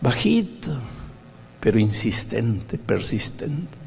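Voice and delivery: soft and slow, gently pressing; gentle insistent voice. Shown as a demonstration. Preacher describing the Spirit's voice, soft and slow. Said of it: "El Espíritu Santo trabaja con".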